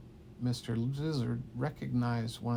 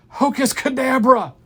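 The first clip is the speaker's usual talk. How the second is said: higher, much louder nervous blurt; 11 semitones higher, 13 dB louder than usual. Retold or imitated. Kid fighting the first troll, loud nervous blurt. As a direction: blurt the spell in a panic. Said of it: "I got so nervous".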